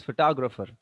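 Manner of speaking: phoTOGrapher, stressed on tog; second-syllable stress. Shown as a demonstration. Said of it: "always the stress is on two".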